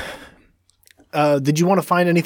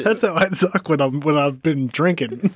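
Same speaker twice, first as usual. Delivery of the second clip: put-on old prospector. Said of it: "like a weird old prospector".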